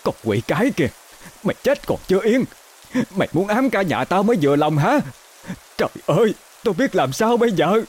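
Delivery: high, fast, furious cursing; hateful rage. Acted. Mother cursing the ghost daughter-in-law in the rain, high fast fury. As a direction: spit curses at the ghost. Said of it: "giọng căm tức".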